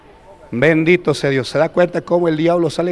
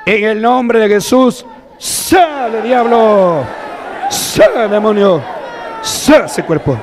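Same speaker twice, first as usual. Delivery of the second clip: commanding shout; slower than usual. Real, not acted. Preacher commanding demon out.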